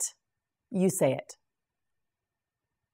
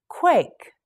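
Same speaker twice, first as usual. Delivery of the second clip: whispered word; 7 semitones higher, 3 dB louder than usual. Shown as a demonstration. Teacher models word twice.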